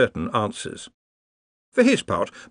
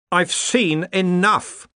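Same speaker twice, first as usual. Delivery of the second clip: weary Darwin; 9 semitones higher, much slower than usual. A narrator's reading.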